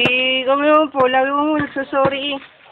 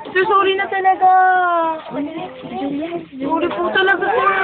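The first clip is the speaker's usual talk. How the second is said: pleading apology; 4 semitones higher than usual. Pretend. Student begging teacher to forgive the class, pleading. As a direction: stretch out the sorry in a pleading whine.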